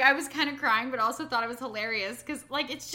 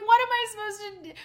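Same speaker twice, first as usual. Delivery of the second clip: put-on dramatic kid; 8 semitones higher, 5 dB louder, much faster than usual. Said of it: "So he's like".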